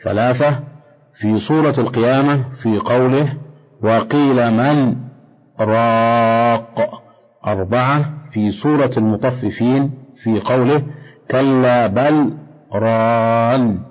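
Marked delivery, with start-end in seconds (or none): 3.8-7.0 short silent stop on من before راق, راق drawn out very slowly; سكت على من ثم مد راق ببطء; saqt pause. Shown as a demonstration. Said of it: "السكت هو قطع الصوت زمنا يسيرا من غير تنفس". 11.3-13.8 brief breathless stop on بل before ران, recited slowly; سكت على بل دون تنفس ثم ران ببطء; saqt pause. Shown as a demonstration. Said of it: "السكت هو قطع الصوت زمنا يسيرا من غير تنفس".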